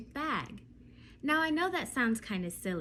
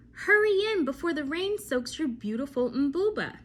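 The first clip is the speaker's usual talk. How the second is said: higher, louder urging grandmother; grandmother calling; 5 semitones higher, 7 dB louder than usual. Acted. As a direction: call the girl in from the rain, lightly voiced.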